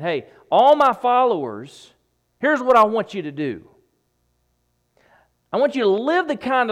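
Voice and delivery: rally the disciples with urgency; Jesus addressing followers. Retold or imitated. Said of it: "He's saying".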